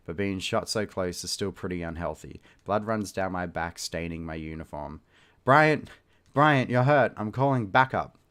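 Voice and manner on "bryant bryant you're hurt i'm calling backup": high, loud cry of alarm. A narrator's reading. Partner sees Bryant hurt, calls out in alarm. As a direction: call out urgently to a hurt partner.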